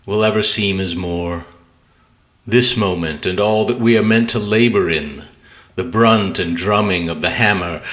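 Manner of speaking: measured, deliberate sonnet recital; poem reading. Acted. Poet reads own sonnet to video viewers, measured poetry reading. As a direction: recite with weight, pausing between phrases.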